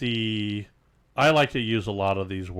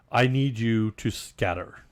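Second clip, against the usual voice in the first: rich attitude. Pretend. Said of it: "If you add a rich attitude to it".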